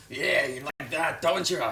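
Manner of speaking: put-on slow, leering creepy old man; dirty old man voice. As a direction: drag it out like a sleazy old man. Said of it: "like, dirtiest old man voice".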